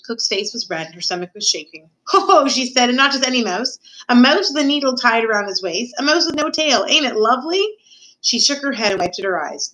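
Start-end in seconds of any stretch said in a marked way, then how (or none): 2.1-2.5 mock laugh. Cook laughs at the mouse. 2.9-7.7 high-pitched, amused cook; lively cook voice, poking fun; mocking story Cook. Cook mocks the mouse.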